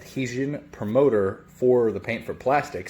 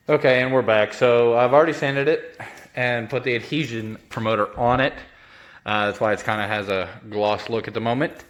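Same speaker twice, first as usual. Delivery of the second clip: talking through a face mask; muffled voice behind a mask; 3 dB louder than usual. Real, not acted. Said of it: "sorry for the voice muffled".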